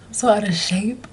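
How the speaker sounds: breathless whisper; winded, airy whisper; out of breath. Real, not acted. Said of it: "I'm out of breath".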